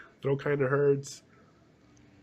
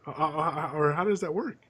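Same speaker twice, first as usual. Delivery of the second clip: surprised; 4 semitones higher than usual. Retold or imitated. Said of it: "I was like".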